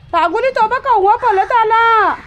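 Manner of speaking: slow, high, loud call to the dog. Real, not acted. Woman calling her dog to look at the crow, slow loud high call.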